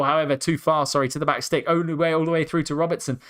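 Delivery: breathless, rushing the words; commentating while winded; out of breath. Real, not acted. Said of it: "Can I catch my breath?".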